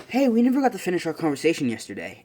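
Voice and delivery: lightly voiced eager approach; eager greeting. Ida walking up to resume a conversation, eager. Retold classmate walks up, greets.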